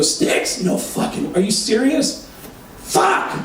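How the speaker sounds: breathless gasped disbelief; can't believe it's the band; half-whispered then high gasp; stunned disbelief. Retold or imitated.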